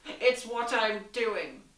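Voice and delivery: slow, sweet teasing reply; sweet, unhurried tease; sweetly. A narrator's reading. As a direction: drawl it sweetly and slowly. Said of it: "Diamanda said sweetly".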